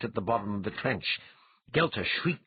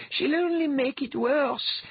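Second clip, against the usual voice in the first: slow, high, urgent voice in the head; crackling goddess voice; 4 dB louder, slower than usual. A narrator's reading. Dwea warns Althalos inside his mind, crackling. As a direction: warn him slowly, pitched high. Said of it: "Dwea's voice crackled inside his mind".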